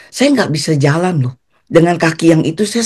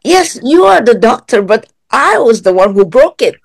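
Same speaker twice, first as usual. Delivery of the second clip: re-enacted comeback, raised pitch, punched words; retold insistent retort; 6 semitones higher, 4 dB louder than usual. Patient arguing back at the doctor about the broken needle, insistent retort. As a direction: argue back, high and emphatic.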